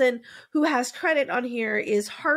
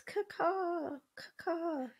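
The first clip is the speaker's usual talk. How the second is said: shrill screeching bird woman; 8 semitones higher, 11 dB quieter, much slower than usual. Acted. Witchy crow call intro.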